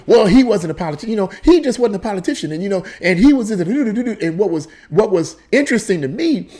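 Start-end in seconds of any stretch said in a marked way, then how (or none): 0.1-3.5 fast, mildly upset retort; a touch of imitated annoyance, rushed; quick defensive quote; mock upset. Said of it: "she got upset and angry".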